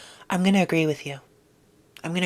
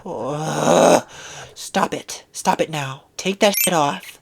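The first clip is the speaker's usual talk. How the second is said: disgusted; 5 dB louder, much slower than usual. Real, not acted. Reacting to ugly shoe.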